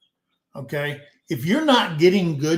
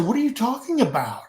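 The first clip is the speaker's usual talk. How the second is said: groggy retort; 7 semitones higher, faster than usual. Retold or imitated. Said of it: "And I said".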